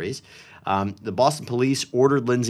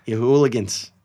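lightly voiced Boston accent. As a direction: say it like a Boston local. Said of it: "like Boston accent?".

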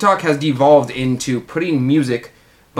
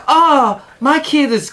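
mock commercial mom; 12 semitones higher, 5 dB louder, slower than usual.

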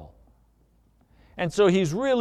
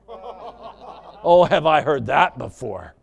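louder, indignant acted wife; scornful retort; 2 semitones lower, 3 dB louder, slower than usual. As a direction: throw it back at him with scorn. Wife escalating at husband.

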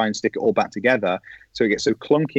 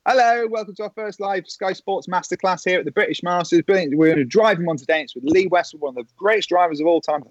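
higher-pitched, upbeat live-show welcome; TV presenter opening; 4 semitones higher than usual. Retold or imitated. Presenter welcoming viewers to first live masterclass, re-enacted intro. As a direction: act out a sports host going on air.

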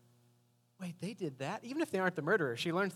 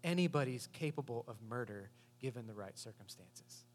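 lower, softer world-weary voice; a hint of a grim cynic; lightly voiced jaded detective; gruff detective; 4 semitones lower, 4 dB quieter than usual. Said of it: "And he says".

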